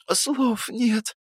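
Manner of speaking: «Слов нет» mumbled through food; mouth full. A narrator's reading. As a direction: talk around a big mouthful. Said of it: "прошамкала она с набитым ртом".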